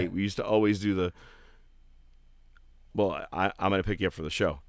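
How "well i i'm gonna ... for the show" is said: character impression. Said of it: "I can kinda do his character".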